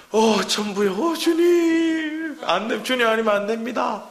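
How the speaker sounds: high, drawn-out cry to the Lord; desperate plea. Acted. Believer crying out to God after failing, pleading and high. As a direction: beg like someone at the end of their rope.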